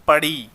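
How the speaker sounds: पढ़ी slowly, with a long final "ee"; पढ़ी ending on a held "ee" sound; stressed ई ending. Shown as a demonstration. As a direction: draw out the ई at the end of पढ़ी. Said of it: "ई का sound आ रहा है".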